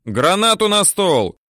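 soldier's shouted command. A narrator's reading. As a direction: call the grenade up over the noise. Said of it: "кричит третьему номеру".

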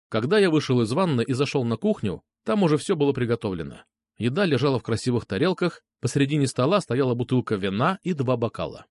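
ordinary delivery

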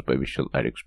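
ordinary delivery, nothing marked

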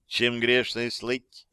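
slow, measured recitation; deliberate, slow poetic delivery; declaiming. A narrator's reading. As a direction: recite it like a line of verse. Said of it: "продекламировала Аманда".

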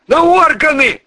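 high, loud panicked blurt. Acted. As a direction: blurt it out in terror. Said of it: "выпалил Михеич". (выпалил в панике)

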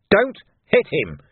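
high, drawn-out warning shout. A narrator's reading. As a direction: shout slowly and urgently to stop him. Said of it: "he shouted".

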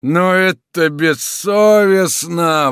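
bitter outrage; grieving indignation; indignant outcry. Acted. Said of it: "воскликнул Симон".

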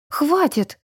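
a high cry of protest, pitch jumping up; shouted out. A narrator's reading. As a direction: cry out for him to stop. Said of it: "выкрикнула она".

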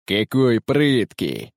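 slow, sneering mock; mocking laugh. A narrator's reading. Captain mocks the young man who attacked him, slow and sneering. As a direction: savour the mockery slowly. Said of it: "усмехаясь".

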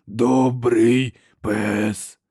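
slow rasping monster voice; harsh cracked giant voice. A narrator's reading. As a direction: drag out each word like a simple-minded brute. Giant speaks.

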